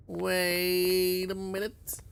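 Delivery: high, slow, stretched out; high drawn-out realization. Retold or imitated. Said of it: "and then you're like".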